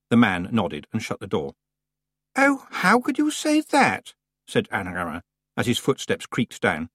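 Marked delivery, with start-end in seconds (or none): 2.4-4.1 much higher, slow, scandalised; shocked reproach. A narrator's reading. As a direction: Anagramma reproaching Tiffany after the man leaves, shocked. Anagramma aghast at Tiffany.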